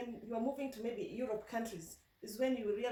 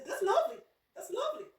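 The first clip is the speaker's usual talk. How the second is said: much higher, lilting Yorkshire "lovely" with rising ends; playful imitation of a Yorkshire sing-song accent; 12 semitones higher, 5 dB louder, faster than usual. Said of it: "you may think they're singing".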